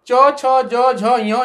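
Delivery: च, छ, ज, झ, ञ each said clearly and separately; letters recited for the class; reciting letters. Shown as a demonstration. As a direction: sound out च, छ, ज, झ, ञ one by one. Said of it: "इसको बोलते हैं च वर्ग".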